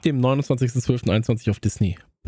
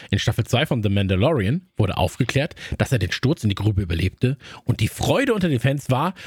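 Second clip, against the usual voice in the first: movie trailer voice; 3 semitones lower than usual. Shown as a demonstration. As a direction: slightly lower dramatic trailer read. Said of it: "meine Trailerstimme".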